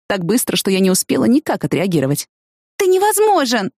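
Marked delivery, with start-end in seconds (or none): 2.8-3.7 high, teasing exclamation; playful cry. Acted. Heroine teasing her boyfriend in bed, high playful cry. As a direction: scold him laughingly. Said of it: "шутливо крикнула я".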